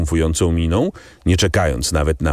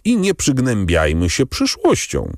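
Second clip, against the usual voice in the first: cheerful call; 8 semitones higher than usual. A narrator's reading. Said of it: "zawołał Albert".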